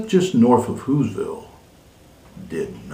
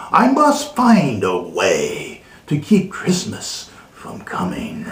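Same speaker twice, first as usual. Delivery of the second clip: growl. Acted. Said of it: "he growled".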